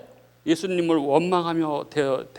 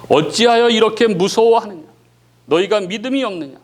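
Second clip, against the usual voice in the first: mild stern rebuke; 4 dB louder than usual. Acted. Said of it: "제자들을 꾸짖으십니다".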